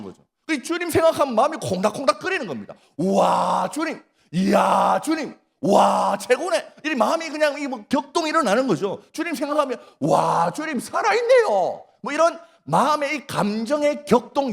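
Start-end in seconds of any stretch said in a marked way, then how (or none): 3.0-6.7 bursts of delighted wonder, pitch jumping up; excited awe. Pretend. Pastor acting out a stirred believer to the congregation, excited awe. 10.0-11.8 thrilled exclamation, pitch jumping up; excited shout. Pretend. Pastor voicing a believer's stirred heart to the congregation, excited shout.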